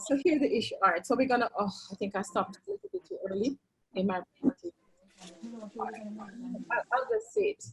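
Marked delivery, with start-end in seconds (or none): 2.9-7.7 muffled, as if through a hand; speech muffled behind a hand. Real, not acted. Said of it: "you're muffled".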